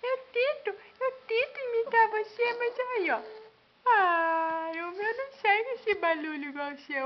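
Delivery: put-on high, squeaky baby voice. Mother voicing baby's complaint. (voz de bebê aguda)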